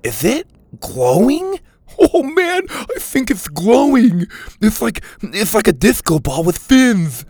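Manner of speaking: high, loud, wide-eyed wonder; amazed, excited. A narrator's reading. Mac marvels at the glowing creature, excited and loud. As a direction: gasp it out, thrilled by the glowing fish.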